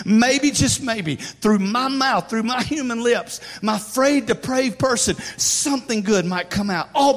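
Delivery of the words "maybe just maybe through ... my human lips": each phrase drawn out slowly; slow emphatic build. Real, not acted. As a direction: lean on every word, slowly. Slow emphatic sermon climax.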